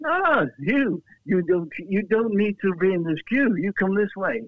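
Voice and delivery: lightly voiced helpful steward; a hint of an official waving him through; steward's voice. Steward voiced in retold story.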